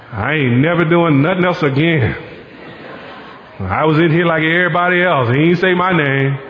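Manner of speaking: mock aggrieved grumbling; indignant complaint. Preacher mimics a volunteer left out of the thanks, mock indignant. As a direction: play a slighted volunteer, lightly hammed-up.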